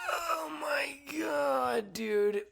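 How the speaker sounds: very high, long drawn-out oh my God; hammed-up awestruck cry; overwhelmed mock wail. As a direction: wail it slowly, sliding down. Mock-overwhelmed reaction to the quote.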